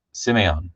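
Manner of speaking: careful "sim-AY-on" for Simeon; tentative pronunciation. Real, not acted. Streamer retrying a viewer's name, tentative pronunciation. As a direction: say Simeon as "sim-AY-on", stated slowly. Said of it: "Is that right?".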